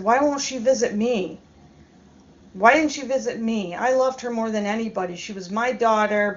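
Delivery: mildly worked-up, retold indignation; mock indignant rant; imitating angry mother-in-law. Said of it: "she got mad at me".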